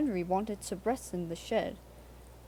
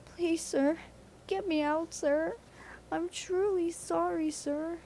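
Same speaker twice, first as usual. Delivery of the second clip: much higher, pleading; pleading Percy; 9 semitones higher than usual. A narrator's reading. Percy begs the Fat Controller for rescue, high. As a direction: beg to be pulled out.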